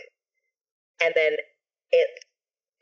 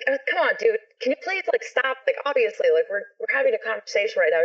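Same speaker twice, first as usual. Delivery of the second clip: exasperated pleading; 5 semitones higher than usual. Retold or imitated. Pleading with a noisy brother.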